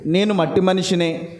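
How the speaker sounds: a lightly voiced humble Abraham; humble plea. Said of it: "చూ-, చూడండి".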